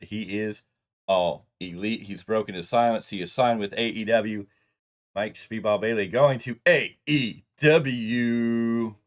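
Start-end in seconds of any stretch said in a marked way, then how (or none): 5.1-9.0 announcer voice. Acted. Ring announcer style reveal.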